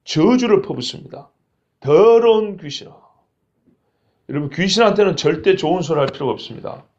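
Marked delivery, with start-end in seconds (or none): 1.8-2.9 slow, firm curse, 더러운 stressed; firm rebuke. Retold or imitated. Jesus rebukes the spirit mercilessly, slow and firm. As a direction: pronounce 더러운 귀신아 slowly and firmly. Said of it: "사정없이 꾸짖습니다".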